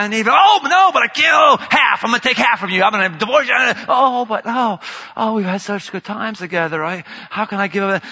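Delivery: lurch back and forth like a jilted lover; torn between rage and love. Acted. God as a jilted lover, frantic swinging outburst. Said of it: "this rubber band back and forth".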